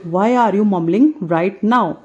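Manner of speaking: slow, clear classroom model; slow model sentence. Shown as a demonstration. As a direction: drill it slowly. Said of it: "हम इस चीज़ को कैसे बोलेंगे". (धीमे, साफ़ अंदाज़ में)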